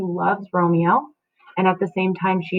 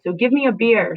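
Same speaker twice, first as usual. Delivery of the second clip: mock nurse; 4 semitones higher, 3 dB louder than usual. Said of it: "she says".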